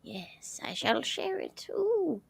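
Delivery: soft unvoiced whisper. Real, not acted. Wife whispering to herself while uploading. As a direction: whisper it under your breath.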